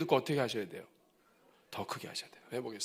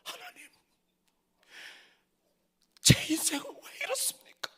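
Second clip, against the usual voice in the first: inner cry whispered. Acted. Hannah grieving inwardly before God, whispered lament. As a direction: breathe it like a silent prayer. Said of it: "속으로는".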